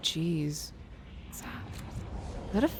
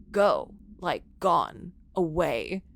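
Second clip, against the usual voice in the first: eerie caller voice; 4 semitones lower, slower than usual. Acted.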